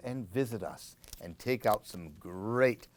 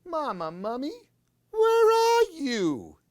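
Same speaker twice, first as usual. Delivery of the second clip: put-on lost baby wailing for mama; high worried wail; 7 dB louder than usual. Baby mummy calls under tree.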